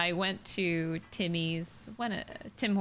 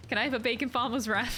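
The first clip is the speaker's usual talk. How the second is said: quick British-accented food order, retold; retold British accent, slightly raised; 3 semitones higher, faster than usual. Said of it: "ordered with a British accent too".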